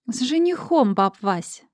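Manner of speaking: loud, pleased answer; loud and gleeful. Acted. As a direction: say it loud, enjoying it. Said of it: "Алиса ответила громко, с удовольствием". (громко, с удовольствием)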